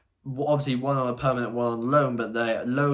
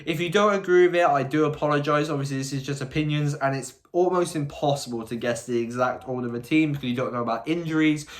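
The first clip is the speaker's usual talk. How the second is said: wearing a retainer. Real, not acted. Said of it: "I still do have my retainer in".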